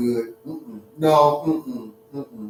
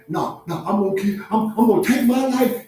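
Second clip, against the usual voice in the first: mock desperate ex shouting; 3 semitones higher than usual. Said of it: "they keep calling".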